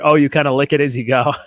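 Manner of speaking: lightly hammed imitation; mock Fontana voice. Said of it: "That's what she says".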